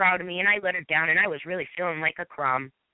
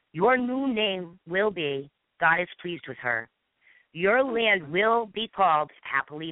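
measured, solemn Bible reading with pauses; scripture reading. Shown as a demonstration. Reading Isaiah to the audience with her own name, solemn. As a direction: read it out like a proclamation over her. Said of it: "I'm going to read it for you folks".

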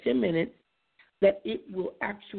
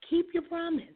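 whisper; 9 semitones higher than usual. Real, not acted. Host drives home parenting advice.

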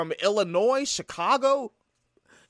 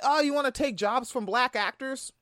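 higher-pitched imitation of an objector; mock challenging question; 5 semitones higher than usual. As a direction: echo a critic's question, rising at the end. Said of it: "And people be like".

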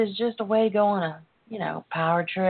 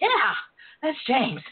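breathy swoon; 5 semitones higher than usual. Retold or imitated. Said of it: "I'm like".

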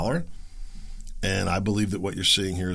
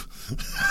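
short high laugh; 6 dB quieter than usual. Real, not acted. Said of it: "I'm just laughing".

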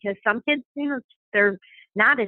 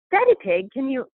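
put-on amateur British accent, a little higher; terrible British accent; 5 semitones higher than usual. Mom imitates British cartoon Mummy Pig, terrible British accent. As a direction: attempt a British accent, badly. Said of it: "this is a terrible accent right now".

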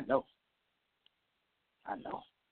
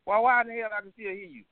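exasperated yell; 11 semitones higher, 3 dB louder than usual. Real, not acted. Annoyed at unmuted caller.

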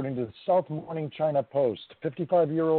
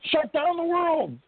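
mocking; 10 semitones higher, slower than usual. Mocking overreaction to one case.

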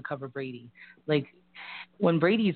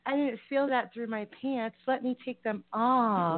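mock demand; 6 semitones higher than usual. Pretend reply to butt pat.

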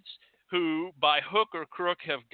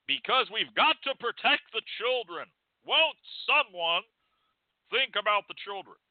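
mock hand-wringing; 6 semitones higher than usual. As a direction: parody a panicked scold begging. Parodying moral panic.

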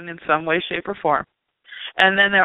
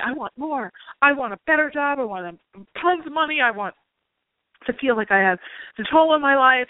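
higher, greedy wish-list voice; lightly played hungry client, pitched up; mock eager wanting; 6 semitones higher than usual. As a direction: rattle off wishes like a kid asking for more. Clients listing what they want.

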